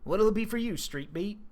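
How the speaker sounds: lightly voiced folksy farmer, barely off own voice; a hint of a laid-back cowboy; Jim Raynor impression. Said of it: "I'll do my best Jim Raynor impression".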